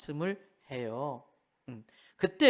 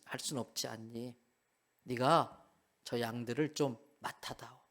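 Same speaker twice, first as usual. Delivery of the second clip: gentle Jesus; 4 semitones lower than usual. Acted. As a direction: comfort him like a forgiving friend. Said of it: "씩 웃으세요".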